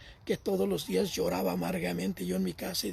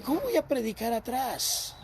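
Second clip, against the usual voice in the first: raised, exasperated objection, near a shout; indignant protest; 5 semitones higher than usual. Retold or imitated. Preacher retelling his protest to the coordinator, indignant and raised. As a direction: protest as if the idea is outrageous.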